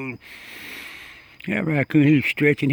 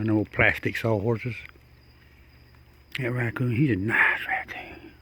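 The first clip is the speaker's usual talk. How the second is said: soft whisper to the animal; 2 semitones lower, 4 dB quieter than usual. Real, not acted. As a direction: whisper so as not to scare it. Talking softly near the raccoon.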